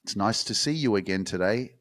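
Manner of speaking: a lightly voiced bland, polite host; mock soft podcast voice. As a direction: mildly mimic a tame, nice podcaster. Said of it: "you want me to do the podcast like".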